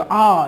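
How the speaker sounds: mild acted cry of "aah"; mock pained yell. Schoolboy yelping as the doctor touches him, mock pained yell. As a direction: imitate a yelp without full force. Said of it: "इस तरीके से चिल्लाया".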